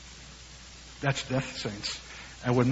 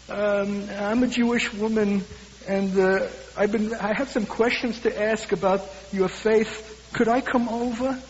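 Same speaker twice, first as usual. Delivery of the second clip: put-on higher, slow frail old woman; lightly voiced frail elderly woman; thin frail voice; 5 semitones higher than usual. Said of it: "a thin, frail voice".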